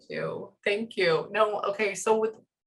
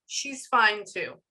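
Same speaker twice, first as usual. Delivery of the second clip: imitating his delivery; much slower than usual. Medium shows how he said she's fine, slow imitation. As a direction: stretch it slowly, as he said it. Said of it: "Like that, just with the eyes and".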